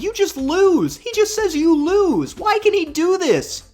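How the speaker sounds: exasperated. Real, not acted. Outraged at the game's rules.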